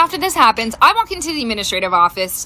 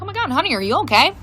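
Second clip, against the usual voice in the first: concerned mom; 4 semitones higher, faster than usual. Retold or imitated. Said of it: "even I was a little concerned".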